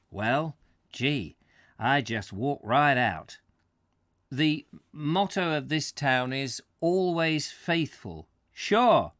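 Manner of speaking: put-on light New England American accent, lively. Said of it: "the American talking".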